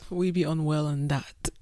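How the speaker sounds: light put-on Toronto Canadian accent; a hint of Toronto Canadian slang. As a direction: toss off a half-joking Toronto accent. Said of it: "I don't know what accent that is".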